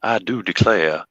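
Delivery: put-on slow, refined Savannah accent; unhurried Southern gentleman accent. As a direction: lightly put on a genteel Savannah drawl. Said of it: "like the southern gentleman".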